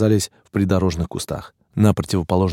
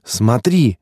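higher-pitched triumphant cry; jubilant, raised voice; exulting; 5 semitones higher, 4 dB louder, much slower than usual. A narrator's reading. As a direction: urge them to look, exultant. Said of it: "ликовал молодой".

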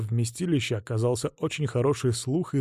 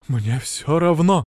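fervent; 2 semitones higher, 4 dB louder, slower than usual. Acted. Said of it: "горячо заверил он".

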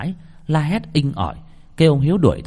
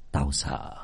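low, much softer, voice catching; choked up; 7 semitones lower, 8 dB quieter than usual. Acted. Old father tells his son, softly choked up. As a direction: barely get it out, choked with fear. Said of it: "Ông hai nghẹn ngào".

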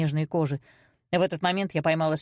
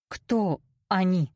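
slow, hesitant question; swallowing nervously; much slower than usual. A narrator's reading. Daughter asks mother who is gossiping, uneasy. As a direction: ask it slowly after a hard swallow. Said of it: "сглотнув, произнесла я".

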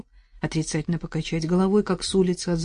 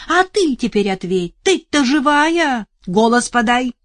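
loud, higher anxious call; 7 semitones higher, 8 dB louder than usual. Acted. Соседка кричит вдове из-за столба, громко. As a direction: shout across the yard. Neighbour shouting from fence.

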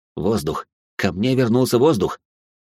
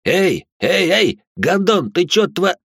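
alarmed shout; 8 semitones higher, much slower than usual. A narrator's reading. Partner objects in alarm.

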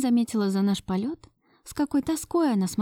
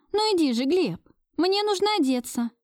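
flustered urging; 9 semitones higher than usual. A narrator's reading. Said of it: "продолжала подталкивать я".

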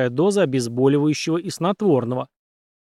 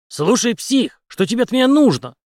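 louder, higher, grim and impatient; grim question; 9 semitones higher, 5 dB louder than usual. A narrator's reading. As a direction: ask with barely held anger. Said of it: "мрачно спросил Генри". (Генри мрачно и громко спрашивает)

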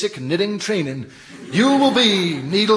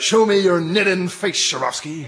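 drill sergeant; 4 semitones higher than usual. Acted.

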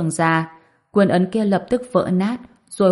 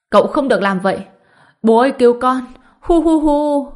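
high, loud, desperate wail ending in sobs; screaming for help; 6 semitones higher, 6 dB louder than usual. A narrator's reading. Old woman screams to her father for rescue, wailing. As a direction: cry out to father in terror, then sob. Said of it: "Bà ta hét lên".

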